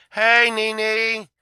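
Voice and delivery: loud high call across the yard. Retold or imitated. Calling out to Nene in the yard, loud. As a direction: call her name out loud.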